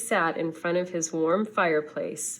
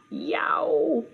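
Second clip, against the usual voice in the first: high startled yelp; nervous gulp; 8 semitones higher than usual. A narrator's reading. Penguin peering over Vulture Gorge, high frightened yelp. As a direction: squeak it out looking down a three-mile drop. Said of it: "he gulped".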